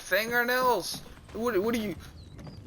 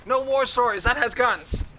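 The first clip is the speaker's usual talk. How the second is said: louder, higher retold outburst; indignant objection; 5 semitones higher, 5 dB louder than usual. Student objecting mid-lesson, indignant retold outburst. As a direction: call it out as a mock protest. Quoting own objection in class.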